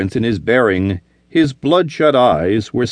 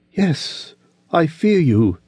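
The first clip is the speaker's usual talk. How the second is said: higher, trembling admission; fearful woman; 6 semitones higher, slower than usual. Acted. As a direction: confess your fear. Olivia admitting fear.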